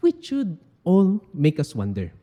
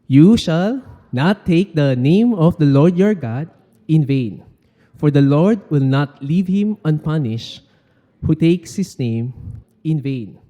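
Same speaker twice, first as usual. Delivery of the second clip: louder, solemn reading aloud; scripture reading; 4 dB louder than usual. Acted. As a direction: read the commandment out for all to hear. Congregation reads scripture aloud.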